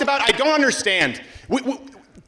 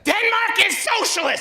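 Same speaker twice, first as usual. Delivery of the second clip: higher mocking cry; a hint of a whiny protester; mock leftist; 10 semitones higher than usual. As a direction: parody an eager American leftist. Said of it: "mocking American leftist".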